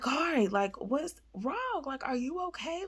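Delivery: high, concerned questioning; retold worried mom. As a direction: imitate an alarmed mother checking on her child.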